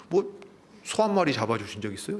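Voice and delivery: mild aggrieved complaint; protesting to father. Acted. Elder son lists his toil to his father, mildly protesting. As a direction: plead your case with a touch of grievance. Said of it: "아버지한테 항의를 하는 겁니다".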